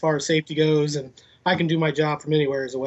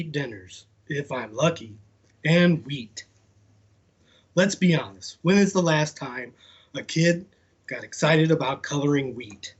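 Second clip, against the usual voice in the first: slow, deliberate storybook read; dad reading a picture book aloud; reading to children. Acted. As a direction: read the letter out, taking your time. Reads beige crayon letter.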